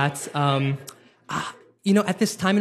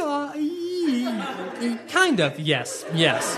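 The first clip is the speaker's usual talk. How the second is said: laughing relief; 6 semitones higher than usual. Retold or imitated. Relieved nervous agreement.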